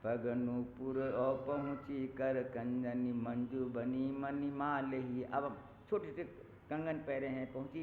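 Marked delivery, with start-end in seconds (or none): 0.0-5.2 slow, drawn-out verse recital; poem recitation. Acted. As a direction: recite each line slowly, savouring it. Recites next verse slowly. (धीमे स्वर में कविता पाठ)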